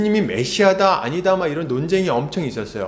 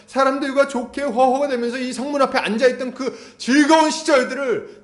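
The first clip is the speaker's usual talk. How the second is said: higher, rising sermon fervor; fervent preaching; 7 semitones higher than usual. Acted. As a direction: preach it with mounting intensity. Preaching build-up.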